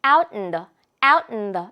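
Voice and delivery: "out in the" with the t dropped, "in the" hummed through the nose; nasal out in the. Shown as a demonstration. Teacher modeling the nasal linking sound. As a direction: say "out in the" like a nasal "aut-n-do". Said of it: "코 먹는 소리처럼".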